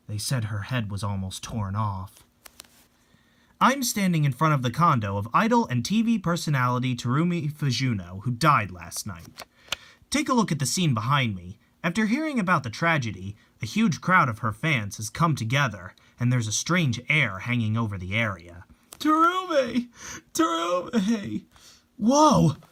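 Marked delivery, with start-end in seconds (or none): 3.6-18.6 steady on-the-scene reporter read; TV news report. Acted. 19.0-21.4 high, drawn-out call of her name. Acted. Fans calling her name. 22.0-22.6 startled shout. Acted. Crowd reaction.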